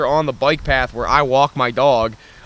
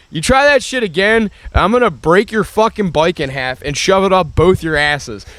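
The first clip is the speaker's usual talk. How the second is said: higher, raised angry threat; retold threat; 4 semitones higher than usual. Warning the e-bike kids, in a raised threatening voice. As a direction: threaten them hard.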